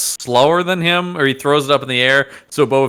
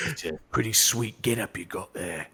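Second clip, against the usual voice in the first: smooth flirting; 4 semitones lower, 13 dB quieter than usual. Pretend. Mock sweet talk by Boba Fett.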